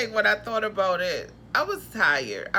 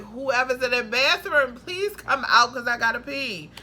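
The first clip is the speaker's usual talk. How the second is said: louder urgent call to whoever's inside; calling through the door; 3 semitones higher, 5 dB louder than usual. Retold or imitated. Desperate to pee, calling through the door to housemates. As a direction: hurry them out, you really gotta go.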